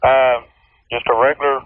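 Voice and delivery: muffled cheap phone line; inside a barrel. Real, not acted. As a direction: sounds like talking from inside a barrel. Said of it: "Your voice sounds like you're in a barrel".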